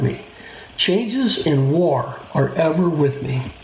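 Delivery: measured Bible reading with lifted, rolling intonation; recited lament from scripture. Acted. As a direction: read the verse aloud, pitch rising on key words. Reads scripture aloud.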